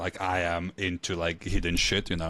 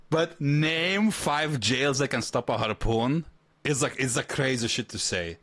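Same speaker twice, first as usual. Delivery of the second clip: laughing; 3 semitones higher than usual. Real, not acted. Laughing while repeating the line.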